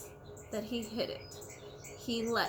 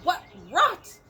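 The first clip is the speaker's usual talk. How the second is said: loud jeering shout; 6 semitones higher, 10 dB louder than usual. A narrator's reading. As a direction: yell it down at him mockingly. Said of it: "came shouting".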